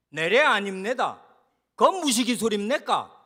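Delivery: loud, indignant North Korean denial; North Korean dialect. Acted. Example of a giveaway dialect, denying in North Korean speech. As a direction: deny it loudly in a North Korean accent. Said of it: "북한에서 왔구나".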